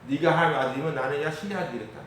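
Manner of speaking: lightly sneering jeer with a rising tune; a touch of scornful mockery; mocking taunt. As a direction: taunt him like a crowd at the cross. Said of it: "이러면서".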